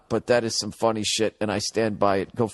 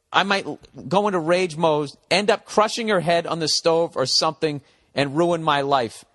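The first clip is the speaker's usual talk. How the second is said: high, louder goofy clown voice; 7 semitones higher, 4 dB louder than usual. Retold or imitated. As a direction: read it like a squeaky circus clown. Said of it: "in your own clown voice".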